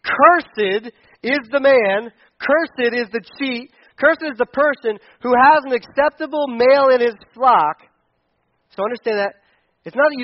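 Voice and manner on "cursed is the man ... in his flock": slow, loud divine proclamation; booming voice of God. Retold or imitated. Pastor voicing God to the church, slow and loud. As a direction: pronounce it like God from on high. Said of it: "And God is saying".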